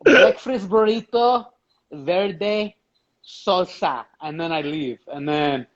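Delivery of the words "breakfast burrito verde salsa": slow, put-on Mexican accent. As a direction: order food in a mock Mexican accent. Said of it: "say it with that Mexican accent".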